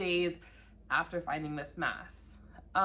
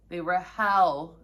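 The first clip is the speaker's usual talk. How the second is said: They were hell repeated louder, hell leaned on slowly; 7 dB louder, slower than usual. Shown as a demonstration. Warning viewers about biopsies, repeating it louder for emphasis. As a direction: say it louder for those in the back. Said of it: "say that louder for those in the back".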